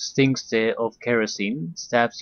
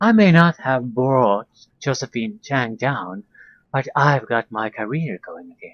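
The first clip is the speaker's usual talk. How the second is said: plain reading voice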